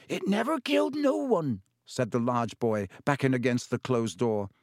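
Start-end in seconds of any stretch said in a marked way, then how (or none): 0.1-1.6 put-on high, pleading young giant; desperate denial, pitched up; big boy voice. A narrator's reading. Hagrid defends his pet.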